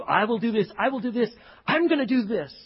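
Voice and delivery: loud, proud mock boast; boastful. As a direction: puff yourself up and declare it. Boastful self-will mocked by preacher.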